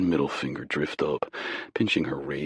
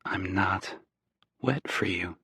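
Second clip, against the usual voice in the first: whispering; 4 semitones higher, 4 dB quieter than usual. Acted. Whispered exchange close in van.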